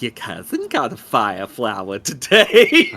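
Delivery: kvetching Jewish mother impression. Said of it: "the Jewish mother voice".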